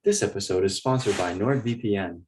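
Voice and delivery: mock sponsor read in a soothing voice. Podcast host pretending to have a sponsor, soothing. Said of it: "That was such a soothing voice".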